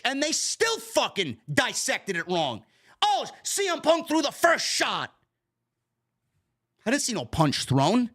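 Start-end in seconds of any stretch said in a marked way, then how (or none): 3.0-5.1 high, slow, dopey sarcastic singsong; mocking fan voice. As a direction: parrot the fans' claim like a fool. Mocking fans' claim.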